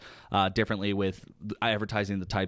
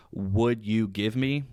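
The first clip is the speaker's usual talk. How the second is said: slow filler phrase; much slower than usual. Shown as a demonstration. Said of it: "instead of saying".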